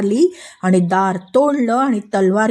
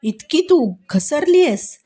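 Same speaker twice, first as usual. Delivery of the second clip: furious rebuke; 2 semitones higher than usual. Acted. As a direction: berate her with contempt. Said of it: "भयंकर ओरडला".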